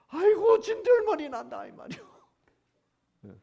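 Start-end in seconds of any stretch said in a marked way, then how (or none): 0.1-1.6 high, loud fed-up wail; exasperated outburst. Acted. Preacher voices God sick of offerings, exasperated. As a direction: burst out sick and tired of it.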